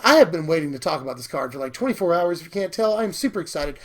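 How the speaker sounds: slightly hoarse, losing voice. Real, not acted. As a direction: talk through a hoarse throat. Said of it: "I'm sort of losing my voice".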